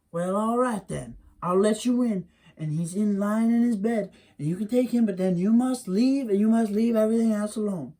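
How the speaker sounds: firm bargaining mother; Wiley's mammy. Acted. Mammy lays down terms.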